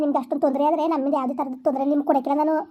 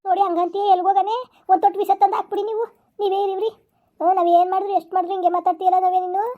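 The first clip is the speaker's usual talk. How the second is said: stepmother pleading in a higher voice, hurt and defensive; wounded stepmother; 4 semitones higher than usual. Acted. Stepmother answering the stepdaughter who told her to leave, higher hurt pleading. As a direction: play the wronged stepmother begging where she should go.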